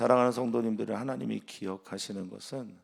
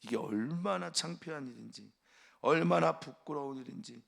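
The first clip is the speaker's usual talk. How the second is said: shaming rebuke; 4 semitones higher than usual. Acted. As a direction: scold him for the shame. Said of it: "말합니다".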